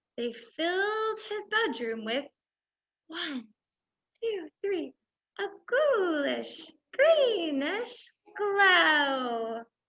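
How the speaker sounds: sweetest, softest, hushed, gentle storybook-style voice. Storyteller reading a children's story aloud to listeners, in sweetest, softest voice. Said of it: "We have to say it in our sweetest, softest voice".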